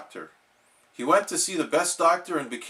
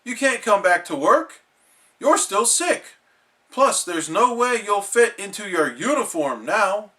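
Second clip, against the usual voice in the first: Mister Krabs voice; 5 semitones higher, 3 dB louder than usual. Acted.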